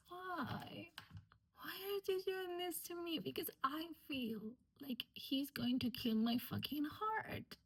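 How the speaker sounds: flustered fangirling. Real, not acted. Reacting to the hero's line, flustered and high-pitched. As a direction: melt over the scene, pitch rising.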